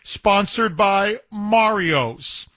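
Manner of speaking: measured announcer delivery; sponsor read. Real, not acted. Host introduces the sponsored poll question, announcer style.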